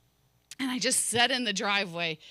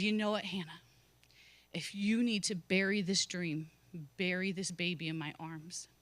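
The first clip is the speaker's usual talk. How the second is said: lower, softer, tender voice of comfort; gentle reassurance; 4 semitones lower, 4 dB quieter than usual. Retold or imitated. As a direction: speak low and soft, like calming a grieving child. Quoting Jesus speaking to her.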